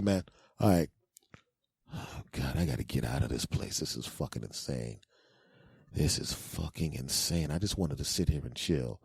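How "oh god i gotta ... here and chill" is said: low, soft grumble to oneself; private, lowered-voice exasperation; exasperated muttering. Acted. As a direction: mutter it wearily under your breath. Grumbling alone after advising.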